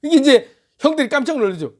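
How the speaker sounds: ordinary delivery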